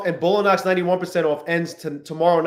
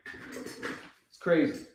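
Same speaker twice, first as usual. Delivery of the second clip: slow, drawn-out stunned whisper; 12 dB quieter, much slower than usual. Real, not acted. Trader whispering to himself after the missed move. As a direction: breathe it out in disbelief. Repeats line, then whispers it.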